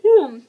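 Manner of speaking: loud tired yawn; real yawn. Real, not acted. Vlogger tired mid-questionnaire, yawning. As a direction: let out a big sleepy yawn. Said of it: "I'm yawning so much".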